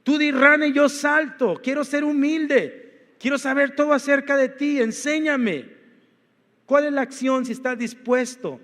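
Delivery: eager surrender; eager willing prayer. Pretend. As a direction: pray it like someone saying yes to God. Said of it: "una mente que le dice".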